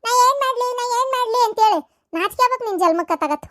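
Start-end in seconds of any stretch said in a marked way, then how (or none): 0.1-1.8 loud, higher sarcastic rebuke; mocking scold. Mother mocks her son's "what can I do", loud and scornful. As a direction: throw his own excuse back at him.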